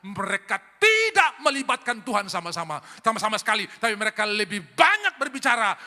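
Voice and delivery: loud, high preaching; fiery preaching. Acted. Pastor warning the congregation, loud fiery preaching. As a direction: drive the point home to the church.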